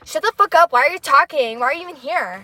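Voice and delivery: loud, high imitation of an aggressive friend; mock hostile snapback. Woman imitating his reply to her greeting, loud mock hostility. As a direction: fire the questions out in mock outrage. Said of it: "he said, 'Why the fuck are you here?'".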